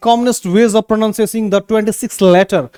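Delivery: slow, careful English reading. Shown as a demonstration. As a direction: read each word slowly and clearly. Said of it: "देखिए pronunciation कैसे करते हैं". (धीमा, साफ़ पढ़ना)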